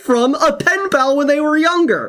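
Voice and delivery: laughing. Real, not acted. Laughing through explanation.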